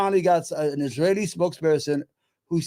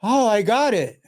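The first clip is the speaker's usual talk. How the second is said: imitating an English accent, pitched up; mock English accent; 5 semitones higher, 4 dB louder than usual. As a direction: put on a light English accent for a quick "got it". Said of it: "'Cause she has an English accent".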